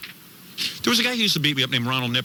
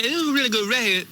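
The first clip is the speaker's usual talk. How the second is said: mock Black slang; 6 semitones higher than usual. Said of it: "And I say".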